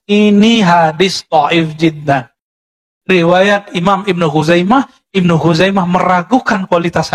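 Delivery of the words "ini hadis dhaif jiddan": slow, drawn-out pronouncement; imitating a scholar's slow, deliberate rebuke; retold stern verdict. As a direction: deliver the retold ruling word by word. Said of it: "dibantai habis-habisan".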